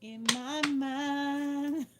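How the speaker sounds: slow, stretched and dreamy; dreamy slow-motion musing; dreamy drawl. Pretend. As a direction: drag it out like a daydream. Dreamy drawn-out aside.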